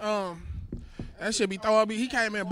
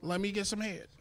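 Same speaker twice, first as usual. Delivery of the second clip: man voice; 2 semitones lower, 11 dB quieter than usual. Shown as a demonstration. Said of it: "In this same voice".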